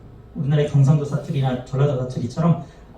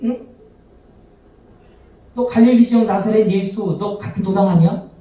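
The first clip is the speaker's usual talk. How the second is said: mock accusing shout; accusing call-out; 3 semitones higher than usual. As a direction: point him out for his accent. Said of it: "사투리를 이제 억양이나 이런 걸 두고 알겠죠".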